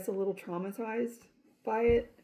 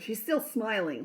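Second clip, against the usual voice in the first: mildly irritated remark, a touch higher; annoyed; 4 semitones higher than usual. Retold or imitated. Doctor irritated patient keeps smiling, mildly annoyed. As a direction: let a little annoyance show on still. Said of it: "Like, it annoyed her".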